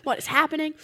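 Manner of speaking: acted-out baffled questioning, rising in force; confused. Dreamer finds sister and dad in a cabin, confused. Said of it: "I'm just so confused by now".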